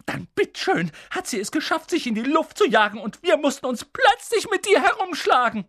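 hohe, keifende Schimpftirade; schimpfend. A narrator's reading. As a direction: lass die Wut aller Jahre raus. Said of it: "fing dann erneut an zu schimpfen". (Tante Petunia schimpft über ihre Schwester)

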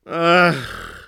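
sighed "Ach"; weary sigh of a king. A narrator's reading. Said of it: "seufzte er".

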